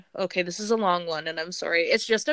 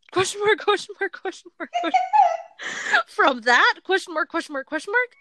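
laughing reading; 5 semitones higher than usual. Acted. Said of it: "pause for each one".

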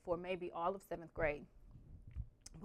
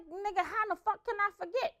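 sarcastic; 12 semitones higher than usual. Retold or imitated. Sarcastic inner reply.

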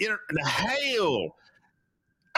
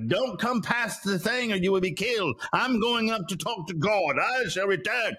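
mock-grand proclamation, pitched up; Moses's solemn warning, imitated; 4 semitones higher than usual. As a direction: announce it like a departing prophet. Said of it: "and he's like".

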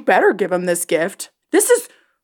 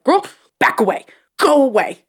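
higher, louder shooing; telling her off; 6 semitones higher, 5 dB louder than usual. Retold or imitated. Host shooing Ahsoka off the screen, loud. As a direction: push her away with your voice. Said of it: "And I'm just like".

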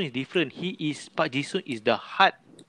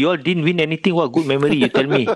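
louder, needling rival fan; teasing challenge; 3 semitones higher, 6 dB louder than usual. Real, not acted. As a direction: press him, mocking.

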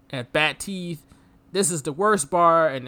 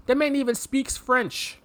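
high, slow shout of disbelief; slow high amazed outburst; incredulous; 10 semitones higher than usual. Real, not acted. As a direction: shout it as if it can't be true. Amazed at Rip speaking French.

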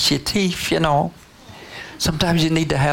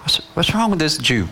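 higher, mildly incredulous aside; acted bafflement; 4 semitones higher than usual. Samaritan woman baffled by Jesus, mildly incredulous. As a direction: wonder at this odd stranger.

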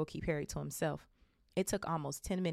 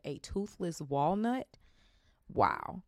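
amused disbelief; much slower than usual. Real, not acted. Reader amused by description.

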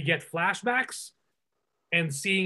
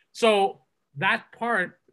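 usual speaking voice

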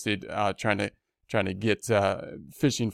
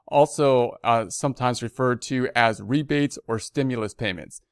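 measured read-aloud of an official notice; news read; 2 semitones higher than usual. Real, not acted. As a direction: read the bulletin out formally. Reads the notice.

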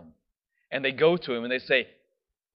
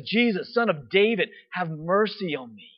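hollering out; 3 semitones higher than usual. Retold or imitated. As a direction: call out to Jesus with everything. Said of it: "he begins to holler out".

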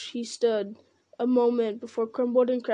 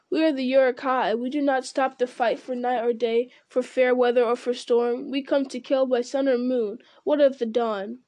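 jeering orcs. Acted. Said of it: "they jeered".

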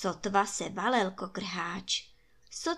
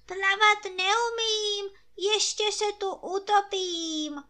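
wailing rooster; 11 semitones higher, 4 dB louder than usual. A narrator's reading. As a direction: wail like a frightened little rooster about to drown. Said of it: "naříkal kokrháč".

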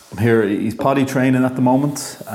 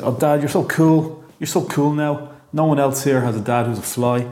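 put-on child gushing over his dad, pitched up; young son, impressed; 6 semitones higher than usual. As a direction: gush like a little boy in awe of his dad. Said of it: "he might say".

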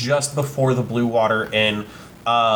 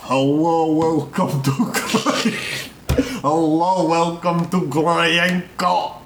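shopkeeper voice; 3 semitones higher, slower than usual. Acted. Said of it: "Granko looks up and goes".

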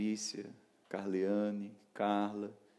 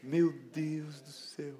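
slow, higher sigh after laughter; amused exclamation; 4 semitones higher, much slower than usual. Real, not acted. Preacher recovering from a funny memory, amused.

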